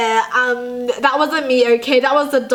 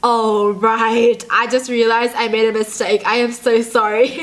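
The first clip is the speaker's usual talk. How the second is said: low-key, dawning mock embarrassment; awkward realization; 3 semitones lower than usual. Realizing the wrong reply to what's up, awkward dawning apology. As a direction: let the mistake slowly sink in. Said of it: "the awkwardness just sinks in".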